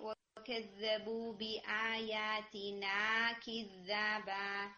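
slow Quran recitation with the long alif madd held; drawn-out madd. Shown as a demonstration. Teacher recites كِذَّابًا to show the missed madd. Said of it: "الف مدیہ مس ہوئی ہے".

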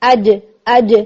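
اج with a sharp bouncing jeem; crisp qalqala jeem; strong jeem hit. Shown as a demonstration. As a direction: tap the tongue hard and pull it back. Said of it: "یوں کر کے".

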